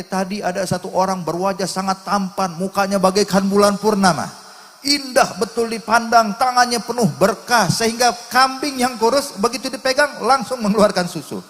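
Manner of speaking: high, loud, rapturous description; fervent praise. Retold or imitated. Wife tells husband of the blessed visitor, rapturous. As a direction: build into ringing admiration.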